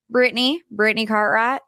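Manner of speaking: Southern twang, second attempt; improved Southern accent. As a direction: put on a lightly Southern accent. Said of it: "That was a little bit better".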